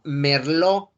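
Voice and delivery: "merlot" said mer-LO; silent T. Shown as a demonstration. Teacher giving students a grape example, "merlot" without the T. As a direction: end "merlot" on an open O. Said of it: "La T no se pronuncia".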